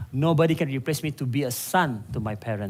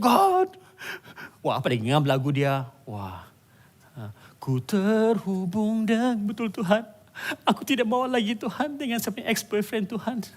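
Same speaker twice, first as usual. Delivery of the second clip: mock lovesick believer; 4 semitones higher than usual. Mocking a heartbroken believer.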